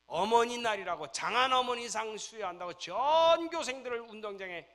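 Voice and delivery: loud, high and slow; slow impassioned sermon shout; preaching at full force. Real, not acted. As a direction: drag it out with passion. Preacher builds intensity.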